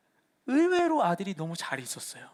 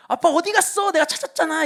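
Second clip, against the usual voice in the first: put-on higher, louder child's voice, proud; imitating his son; 8 semitones higher, 4 dB louder than usual. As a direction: play the little boy who thinks he found dad. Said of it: "애가 저한테 와가지고는 먼저 얘기해요". (아들 흉내, 높고 큰 아이 목소리)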